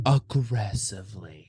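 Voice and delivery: Aggressively, slow and deliberate; "Aggressively" drawn out for a listener to repeat; emphatic AGGRESSIVELY. Shown as a demonstration. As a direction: lead a chant of "Aggressively", stretched out. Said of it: "Say it with me".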